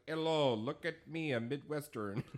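mock a show-off Midwestern accent. Explaining what they would not do, mock Midwestern accent. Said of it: "I'm not like".

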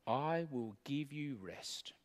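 slow, hushed whisper; whispered promise. Acted. Preacher quoting Jesus to the congregation, in a slow whisper. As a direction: breathe the promise softly, barely voiced.

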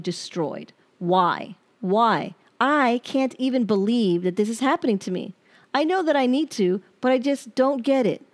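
hurt, accusing letter read aloud; pained reading of a breakup letter; reading a bitter letter. Acted. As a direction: read it like you're still furious at him. Reads her unsent angry letter.

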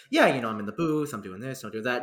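easy, casual small talk, imitated; calm retold chat. Actor chatting to a fan at his booth, imitated calm. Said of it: "he was just very calm".

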